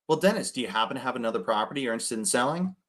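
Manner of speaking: a quick, polished sales pitch; salesy telemarketer. Shown as a demonstration. Salesman pitching an uninterested seller, slick and salesy. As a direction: sound like a telemarketer reading a script. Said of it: "It comes across like salesy, telemarketer".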